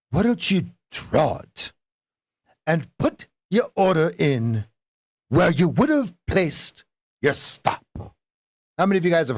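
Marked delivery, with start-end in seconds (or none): 0.1-7.8 put-on higher, slowed English or Scottish trader accent. Quoting the old trader from the film, a higher English or Scottish accent. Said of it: "the old English or Scottish guy says".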